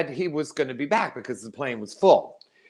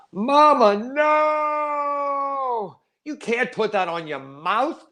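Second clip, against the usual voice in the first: frantic shout; 12 semitones higher, much slower than usual. Retold or imitated. Son yelling across the room at his mother, panicked shout. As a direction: shout to stop her in time.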